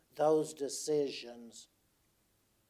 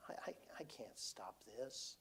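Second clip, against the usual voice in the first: near-silent whispered confession, much softer; helpless whisper; 14 dB quieter than usual. Retold or imitated. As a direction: breathe it out, defeated and hushed. Telling crying wife he's powerless.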